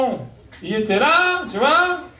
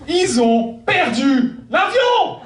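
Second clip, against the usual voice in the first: exclaiming; 8 semitones higher, much slower than usual. Acted. Punchline repeated twice.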